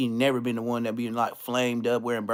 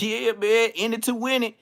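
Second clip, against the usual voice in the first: higher, playful take on "win it"; laughing slogan; 8 semitones higher than usual. Retold or imitated. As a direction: say "in it to win it" high with a light mock laugh. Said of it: "they laughing like".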